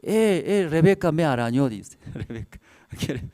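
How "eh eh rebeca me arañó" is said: imitando queixa chorosa de criança, mais aguda; mock tearful child tattling to a parent; filha chorando. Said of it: "papá viene llorando, viene".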